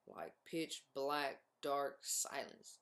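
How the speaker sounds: hushed, calm, unhurried; slow hushed calm. Real, not acted. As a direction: let the words sink into silence. Describing deep calm.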